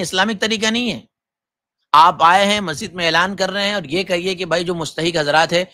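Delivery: heated rebuke of zakat collectors; indignant scolding. Acted. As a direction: scold them like a fed-up cleric.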